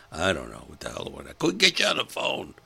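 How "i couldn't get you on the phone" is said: defensive retort. Pretend. Arguing back with wife.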